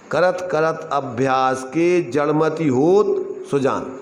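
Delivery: slow recitation, होत held and rising, pause, सुजान falling; second reading of verse. Shown as a demonstration. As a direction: stretch up to होत, stop, then land सुजान. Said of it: "बोलना वही है अक्षर अपन को". (होत पर उठाव, विराम, फिर सुजान)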